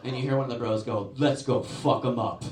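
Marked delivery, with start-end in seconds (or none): 1.2-2.4 loud, slow bro voice; rally the boys loudly and slowly; fired-up bro. Retold or imitated. Young bro urging friends to attack, fired up.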